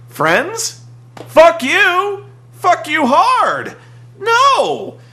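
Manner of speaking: high, loud hammed-up rage; over-the-top mock fury; mock furious yell. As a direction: scream it like a wrestler refusing peace. Mocking wrestler's furious rejection.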